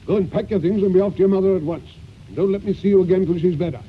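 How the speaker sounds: gruff loud orders. Acted. Gruff master orders servant off.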